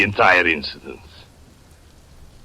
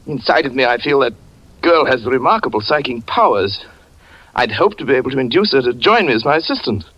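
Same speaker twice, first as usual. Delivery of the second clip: a lightly raised, smooth and courteous gentleman's voice; suave stranger; 4 semitones higher, faster than usual. Acted. A smooth stranger charmingly apologising to the jealous husband. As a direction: glide through a polite apology, charming. Rico speaks to Shari.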